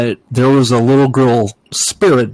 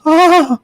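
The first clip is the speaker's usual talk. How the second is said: attempted girl giggle; 3 dB louder than usual. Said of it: "you know how a little girl will giggle".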